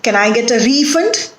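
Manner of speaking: refund as RE-fund, the noun; stress on first syllable. Shown as a demonstration. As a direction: hit RE in refund. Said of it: "stress is on the first syllable".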